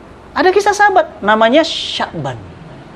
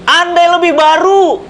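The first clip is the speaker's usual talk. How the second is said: slow, higher drawn-out call; dying cry; 7 semitones higher, slower than usual. Acted. Dying man regrets old clothes, slow and drawn-out. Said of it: "teriakan Sya'ban".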